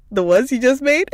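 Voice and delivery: put-on high, loud child's question; tearful child perking up. Mother imitating her son hearing about fresh cookies, high hopeful voice. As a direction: imitate a crying kid suddenly interested. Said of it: "The tears were like".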